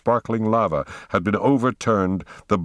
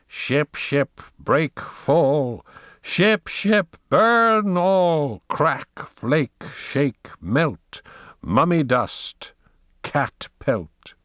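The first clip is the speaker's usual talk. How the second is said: high witch voice chanting a spell; witch's scream; 7 semitones higher, much slower than usual. Acted. Witch on the seashore curses the rocket, shrieking the chant. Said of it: "a witch screamed from her withered mouth".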